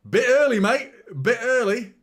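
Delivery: loud, high yell of protest; shouting at the screen. Real, not acted. Fan yelling at Gabriel's premature celebration, loud high shout. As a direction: bellow it at the telly.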